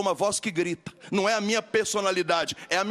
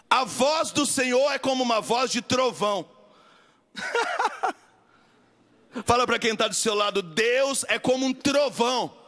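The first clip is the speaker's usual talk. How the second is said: raised preaching; 6 semitones higher than usual. Acted.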